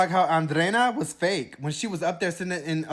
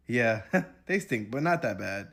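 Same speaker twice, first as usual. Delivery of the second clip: mock dopey boyfriend; 5 semitones lower than usual. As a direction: answer like a sleepy surfer. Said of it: "This is how they sound".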